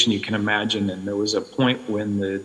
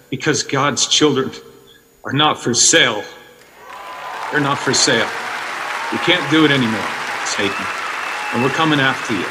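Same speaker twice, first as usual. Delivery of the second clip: quoting a film line; 3 semitones higher than usual. Retold or imitated. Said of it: "as Tim said".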